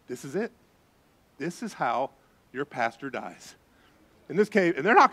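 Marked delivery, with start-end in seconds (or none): 0.1-3.6 panicked thought. Retold or imitated. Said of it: "and I'm thinking".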